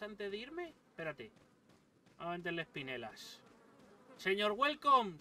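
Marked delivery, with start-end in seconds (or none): 4.2-5.2 louder, slow call to the merchant; drawn-out call for the shopkeeper. Real, not acted. Gamer calling the merchant over, loud and slow.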